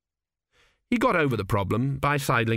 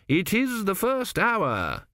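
flustered courtier; 10 semitones higher, slower than usual. A narrator's reading. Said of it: "he repeated".

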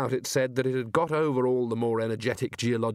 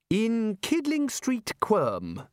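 much higher, slow and tart; 10 semitones higher, much slower than usual. Acted. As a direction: answer sharply, dismissing him. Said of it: "said Ridcully tartly".

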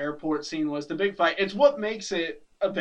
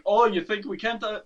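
put-on Irish accent; 4 semitones higher than usual. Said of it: "That was a South African Irish accent".

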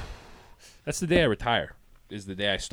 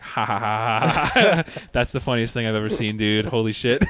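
fake laughing; 7 dB louder than usual. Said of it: "I just responded, like".

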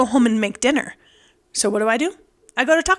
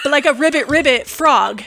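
laughing ribbit; 2 semitones higher, 3 dB louder than usual. Shown as a demonstration. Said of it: "I don't know why I'm doing the bunny thing".

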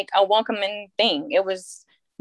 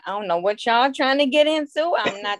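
mock indignant; 4 semitones higher than usual. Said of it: "at first I was like".

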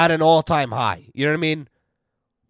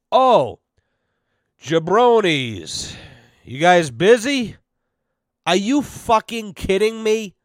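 mocking imitation; 3 semitones higher, slower than usual. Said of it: "my favorite line that these dumb bastards say".

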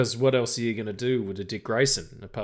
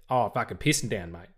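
Australian dad; 3 semitones lower than usual. Retold or imitated. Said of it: "Australian person tells you it's been wet".

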